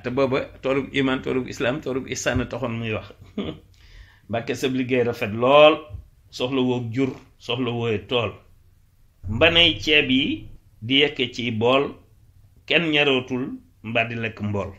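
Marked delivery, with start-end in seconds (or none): 4.3-14.7 measured verse with drawn-out line endings; poem recitation. Acted. Teacher reciting a Wolof praise poem, declaimed. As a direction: declaim each short line, pausing after it.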